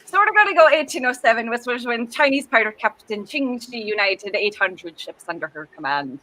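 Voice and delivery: put-on lightly Irish pirate accent. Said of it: "I'm an Irish pirate now".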